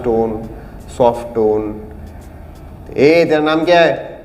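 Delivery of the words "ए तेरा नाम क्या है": rough, demanding, slow asking; harsh tone asking a name. Shown as a demonstration. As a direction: bark it at a stranger. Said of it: "तो tone harsh हो गया".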